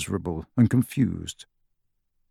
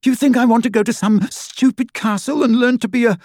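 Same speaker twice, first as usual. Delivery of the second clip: sneering sister; 12 semitones higher, 4 dB louder than usual. A narrator's reading.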